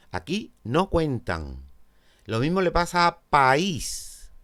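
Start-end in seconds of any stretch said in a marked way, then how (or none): 3.2-4.3 "país" stretched into "pa-ÍS"; "país" with "a" and "í" held apart; hiatus in two syllables. Shown as a demonstration. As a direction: say "país" slowly, stressing the "í". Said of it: "Dos sílabas".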